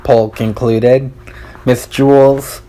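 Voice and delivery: ordinary delivery, nothing marked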